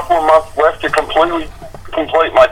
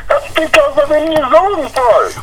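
put-on Kiwi accent; 10 semitones higher than usual. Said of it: "You sound like Jim Richards".

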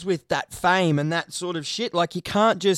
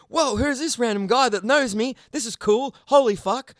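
higher, amazed fan exclaiming; mock wide-eyed surprise at meeting him; imitating a thrilled stranger; starstruck fan; 5 semitones higher than usual. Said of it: "And you're just like".

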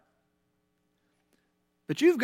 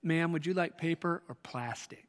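flat rote cashier; 5 dB quieter than usual. Pretend. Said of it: "It starts out sounding like this".

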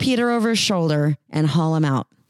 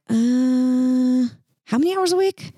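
picky job seeker; 7 semitones higher than usual. Pretend. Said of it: "you're like".

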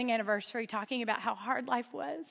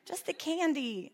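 mock plea; 6 semitones higher, slower than usual. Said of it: "I'm like".

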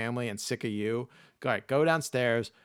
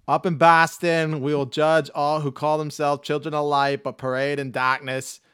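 hammed-up hellfire preacher, louder into a shout; mock preacher; 2 semitones higher, 9 dB louder than usual. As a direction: warn the brethren like a Boston fire-and-brimstone preacher. Mock preacher warning brethren.

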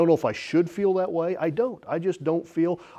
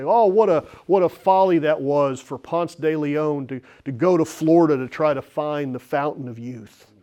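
mocking scoff; 2 semitones higher, 5 dB louder than usual. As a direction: scoff at it as a silly old tale. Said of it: "and say".

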